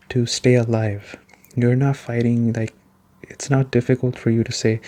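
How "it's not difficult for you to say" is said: ordinary talk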